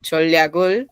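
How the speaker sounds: "Choleagul" in one continuous run; three syllables of "Choleagul" joined as one; quick, run together. Shown as a demonstration. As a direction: say "Choleagul" without inner pauses. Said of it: "aquí otra vez rápido".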